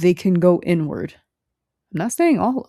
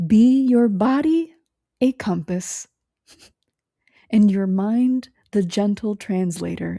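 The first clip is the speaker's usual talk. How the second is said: put-on mild mystic old woman; 2 semitones higher than usual. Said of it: "her voice gets real low".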